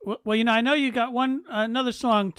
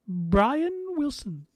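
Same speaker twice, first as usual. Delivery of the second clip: slow, lofty royal voice; the Queen; much slower than usual. Retold or imitated. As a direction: savor the name like a monarch. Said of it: "for Her Majesty".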